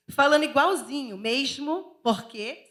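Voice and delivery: playful Rio de Janeiro accent; carioca accent. Shown as a demonstration. Northeasterner showing off a picked-up Rio accent, carioca. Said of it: "Eu tava quase uma carioca".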